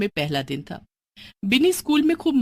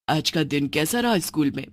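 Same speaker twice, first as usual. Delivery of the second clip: lightly voiced witch mother; 4 semitones lower than usual.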